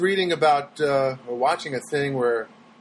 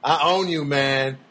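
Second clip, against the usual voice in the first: mock gloating. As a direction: lord it over the scared neighbor. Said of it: "And I thought to myself".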